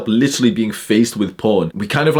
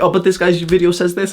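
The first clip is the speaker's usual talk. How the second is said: mocking quote; 7 semitones higher than usual. Mocking a follower quoting YouTubers.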